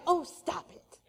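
soft, unconvincing telling-off; half-hearted protest. Acted. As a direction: protest without really meaning it. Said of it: "You don't mean it".

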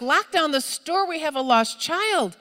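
urgent order. Retold or imitated. Retold order to the cashiers.

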